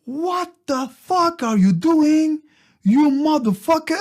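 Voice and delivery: drawn-out high-pitched American shriek of disbelief; shocked American woman. Retold or imitated. American woman confronting the storyteller, shocked high drawl. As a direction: imitate an outraged American woman, stretched out and high. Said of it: "une Américaine qui me fait".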